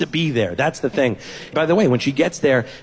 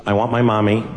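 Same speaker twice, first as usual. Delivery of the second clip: put-on cold toddler; 6 semitones lower, slower than usual. Toddler rejecting dad, slow.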